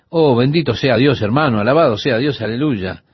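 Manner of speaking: quick, lightly mocked praise; fast retold stream of pious stock phrases; imitating rapid talkers. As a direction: rattle off the blessings in an understated imitation. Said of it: "y hablaban tan rápido".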